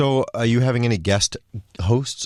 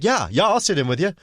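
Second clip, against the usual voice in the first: a weak, higher attempt at a Scottish accent; a Scottish singer's accent; 7 semitones higher than usual. Imitating the singer agreeing to sit in, a faltering Scottish accent. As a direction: try a Scottish accent and half miss it. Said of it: "I can't do the accent".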